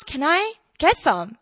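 slow, mildly intrigued request; interested. Retold or imitated. Woman asking Jesus for living water, interested. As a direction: draw the question out, let it fall. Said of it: "she shows interest".

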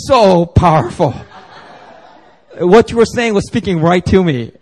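a fan overwhelmed by the sermon; gushing praise. Retold or imitated. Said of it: "people come up to me and go".

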